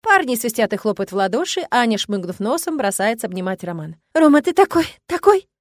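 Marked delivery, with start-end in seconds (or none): 4.1-5.5 sobbing. A narrator's reading. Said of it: "всхлипывает она".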